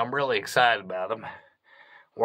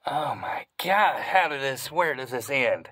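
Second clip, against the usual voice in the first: amazed; 3 semitones higher, slower than usual. Real, not acted. Amazed at endless tunnels.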